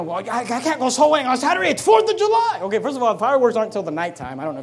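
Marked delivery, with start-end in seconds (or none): 0.0-2.6 mock excuse-maker. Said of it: "you know".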